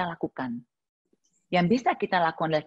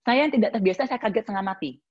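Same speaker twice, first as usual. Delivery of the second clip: ordinary delivery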